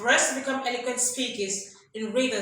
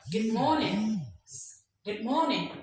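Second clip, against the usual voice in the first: "Good morning" in a lilting, raised teaching tune; rising greeting tone. Shown as a demonstration. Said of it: "not "Good morning." Rather say".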